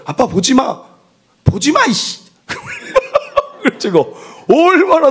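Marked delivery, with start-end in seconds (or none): 0.0-2.2 put-on high, whiny five-year-old snapping at dad; bratty child. Five-year-old daughter yelling at her dad to stop looking. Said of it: "저한테 뭘 하는데". 2.5-3.4 laugh. Real, not acted. Laugh after child quote.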